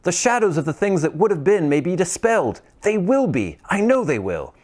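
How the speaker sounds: high, delighted cry; joyful cry. Acted. Scrooge crying out joyfully over his bed curtains. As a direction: cry out in disbelieving joy.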